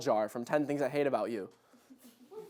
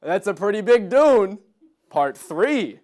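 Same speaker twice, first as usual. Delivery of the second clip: lightly acted, louder first half; Bob Odenkirk; 3 semitones higher, 6 dB louder than usual. Bob to Timothée Chalamet on the desert planet, lightly hammy. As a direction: drop the title as a punchline. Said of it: "and say".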